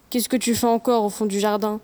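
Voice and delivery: put-on child putting on dad's low voice; deep father voice. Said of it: "prend sa voix la plus grave pour imiter celle de son père".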